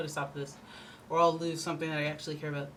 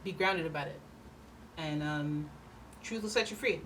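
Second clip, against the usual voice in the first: calm advice; 6 dB quieter than usual. Retold or imitated.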